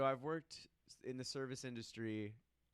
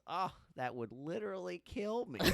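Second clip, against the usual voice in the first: high-pitched, hammed-up alarm; imitated old lady; 7 semitones higher than usual. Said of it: "old lady come in".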